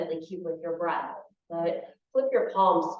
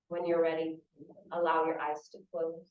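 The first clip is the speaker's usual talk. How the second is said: calm, unhurried guidance with long pauses; guided meditation; 4 dB quieter than usual. Real, not acted. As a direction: ease them gently into stillness.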